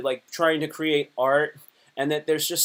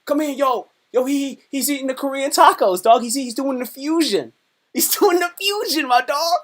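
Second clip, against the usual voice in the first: higher, louder hyped bro calling his friends in; hyped roommate; 10 semitones higher, 4 dB louder than usual. Retold or imitated. Roommates hollering to come watch, hyped and high. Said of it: "the roommates would be like".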